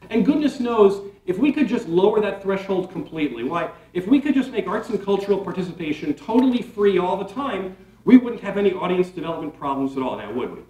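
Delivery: dry, mock-hopeful sarcasm; sarcastic. Shown as a demonstration. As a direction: say it as if it were obvious, tongue in cheek. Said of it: "that was a sarcastic comment on my part".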